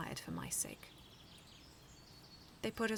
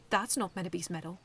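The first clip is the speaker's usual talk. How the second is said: firm, slightly louder bold claim; bold statement; 6 dB louder than usual. Acted. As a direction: call the bluff with confidence. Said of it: "I stated boldly".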